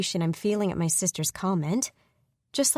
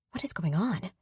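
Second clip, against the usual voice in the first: breathy whisper, rising at the end; 4 dB quieter than usual. Acted. Woman whispers to her armed sister in the dark.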